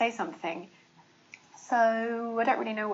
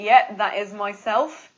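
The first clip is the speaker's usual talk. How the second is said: mock phone reply; 7 dB louder than usual. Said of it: "And they say".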